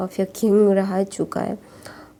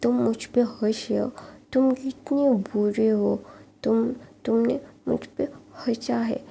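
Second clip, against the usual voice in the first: put-on cute pouting boy; 3 semitones higher than usual. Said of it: "अपना मुंह गुस्से में लाल बना के बोलता है".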